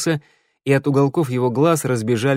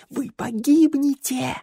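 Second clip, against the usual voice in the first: creeping, ominous list of horrors; fearful warning; 8 semitones higher than usual. Acted. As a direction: scare them with every monster. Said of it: "затрясся от страха".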